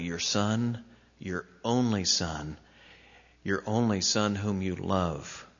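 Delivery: each word laid down gently; tender, deliberate repetition; careful and slow. Retold or imitated. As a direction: say it carefully, letting only son sink in. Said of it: "He said it very carefully".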